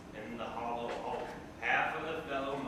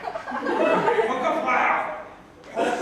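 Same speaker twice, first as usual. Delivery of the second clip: shouting; 10 semitones higher, 11 dB louder, much slower than usual. Acted. Comic sound effect shout.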